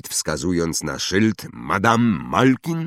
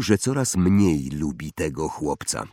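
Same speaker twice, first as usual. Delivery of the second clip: plain reading voice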